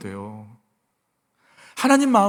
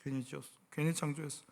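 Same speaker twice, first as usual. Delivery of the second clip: a soft sighing lament, much softer; sighing God; 4 semitones lower, 15 dB quieter, faster than usual. Retold or imitated. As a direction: voice God's regret through a weary sigh. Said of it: "막 한숨 쉬는 거야". (한숨 섞인 부드러운 탄식)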